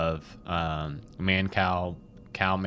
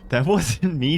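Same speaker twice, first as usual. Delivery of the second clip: laughing and louder; 8 semitones higher, 5 dB louder than usual. Real, not acted. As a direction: giggly protest. Denies talking, laughing.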